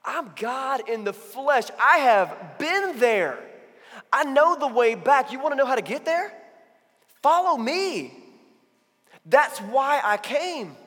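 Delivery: loud, slow, building proclamation; Jesus answering Nicodemus with conviction; Jesus speaking. Retold or imitated. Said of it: "Jesus says".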